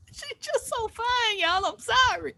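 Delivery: put-on high, slow old lady voice; lightly voiced old lady swooning. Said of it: "I thought it's an old lady voice".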